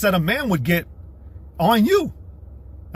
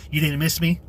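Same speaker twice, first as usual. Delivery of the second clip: mock clingy woman. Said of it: "let's do that".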